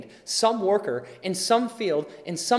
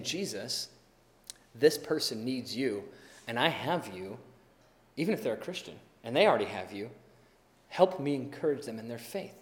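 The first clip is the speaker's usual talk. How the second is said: earnest prayer; 3 semitones lower than usual. Retold or imitated. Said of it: "by saying".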